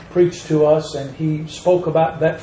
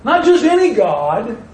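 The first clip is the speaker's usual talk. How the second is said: "Not just any" pitched high, dropping on "God"; high, emphatic "Not just any God"; contrastive stress; 5 semitones higher than usual. Shown as a demonstration. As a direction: lift "any" high to dismiss the alternative. Contrast with THE Lord.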